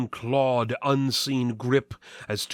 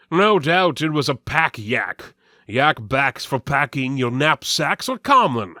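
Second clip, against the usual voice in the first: louder, confident matter-of-fact; hearty warrior voice; 2 semitones higher, 7 dB louder than usual. Acted. Waltiver agreeing with Julius, loud and sure. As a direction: state the obvious heartily. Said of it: "Waltiver agreed".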